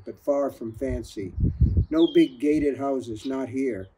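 steady, measured audiobook reading; calm storyteller narrating a crime novel; story narration. A narrator's reading. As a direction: read the novel aloud to listeners. Author reads novel aloud.

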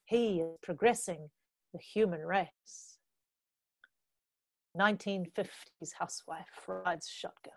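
spoken-word poetry with measured pauses; deliberate performance-poet delivery; poem recitation. Acted. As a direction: recite it as a poem, phrase by phrase, letting line endings fall away. Recites own poem on stage.

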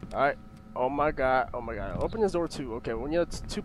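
low, soft, cautious murmur; hushed. Real, not acted. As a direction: keep it down so nothing hears you. Must not make any noise.

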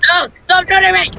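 frantic yell. Real, not acted. Being shot in game.

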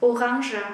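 Orange said o-ronzha with a nasal n; regional variant. Shown as a demonstration. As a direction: Orange with an n before the zh. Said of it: "Cũng có nơi họ phát âm là orange".

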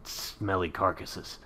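slow, low, gruff monster hunter; Geralt voice. Retold or imitated. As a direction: growl it out slowly like a weary witcher. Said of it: "sounded oddly like the witch Geralt from The Witcher".

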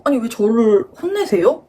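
slow, mildly indignant retort; indignant disbelief. Retold or imitated. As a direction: retell a baffled protest, drawn out. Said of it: "저 너무 어이가 없어가지고".

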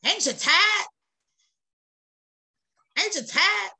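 rising appeal to a weary congregation; pleading. Real, not acted. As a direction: press them to answer.

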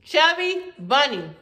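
slow, through stuffed cheeks; cheeks stuffed full. Real, not acted. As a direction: mumble it round a mouthful. Third marshmallow in mouth.

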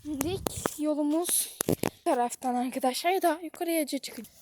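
breathless from the uphill climb; panting between words; out of breath. Real, not acted. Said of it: "Nefes nefese kaldım".

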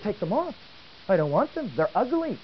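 imitating his daughter refusing the wheels; whiny daughter.

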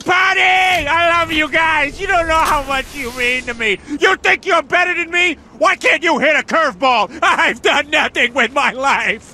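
high toy voice spouting lines; lightly voiced talking toy; toy robot voice. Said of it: "I am a robot ninja".

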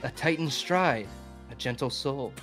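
solemn, softened ode reading; poem recitation. Acted. Presenter reading an ode to LeBron, solemn poem recitation. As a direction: read it like a tender love poem.

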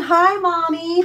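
a hint of a pet greeting; lightly voiced pets. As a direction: say it for the pets, only a little lifted. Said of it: "Everyone's saying".

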